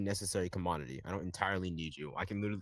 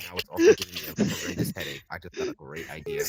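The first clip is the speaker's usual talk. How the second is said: squeaky stuttering voice; 2 semitones lower, 6 dB louder than usual. Acted. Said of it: "You stuttered all the way through it".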